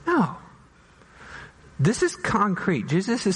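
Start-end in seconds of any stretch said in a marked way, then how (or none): 0.1-0.4 sharp high no; emphatic no. Real, not acted. Preacher rejecting a cliché to his congregation, sharp and high. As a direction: shut the idea down hard.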